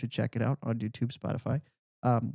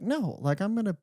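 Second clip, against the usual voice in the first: higher-pitched, mildly defiant pushback; prideful retort; 5 semitones higher than usual. Retold or imitated. Retelling standing up to three skeptical women, prideful. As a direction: stand your ground with a lifted voice.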